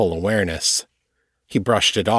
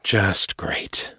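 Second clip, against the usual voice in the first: breathy whispered grumble; muttered whisper. Acted. Alone in the dark cell, a bitter whisper. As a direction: whisper it in disgust to yourself. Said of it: "he muttered".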